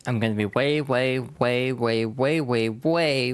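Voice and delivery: teasing rival, dragging it out; drawn-out taunt. Acted. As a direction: stretch the ways into a taunt, slowing at the end.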